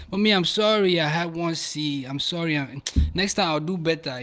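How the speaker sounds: lightly put-on African English accent; home African accent. Shown as a demonstration. Child apologizing to mommy about a grade, in a home African accent. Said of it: "the joke you pull out when you at home".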